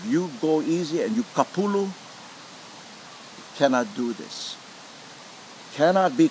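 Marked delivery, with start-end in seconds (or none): 1.9-4.5 hushed warning. Real, not acted. Teacher warns solemnly.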